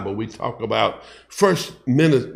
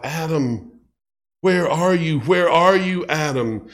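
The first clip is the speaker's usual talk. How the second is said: God calling out. Acted. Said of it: "he's calling out".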